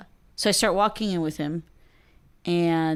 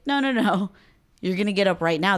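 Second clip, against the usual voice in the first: retold firm insistence; 3 semitones higher, 3 dB louder than usual. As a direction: cut off a drunk friend's arguing. Retold argument with drunk friend.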